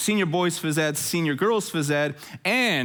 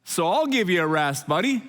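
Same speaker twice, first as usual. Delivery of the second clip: much higher, cartoonish voice for his own worn-out body; your body talking; 10 semitones higher than usual. Pastor voices the body pleading for rest, high and cartoonish. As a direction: play the exhausted body scolding its owner, laughing. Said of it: "your body's like".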